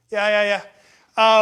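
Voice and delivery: ordinary talk, nothing marked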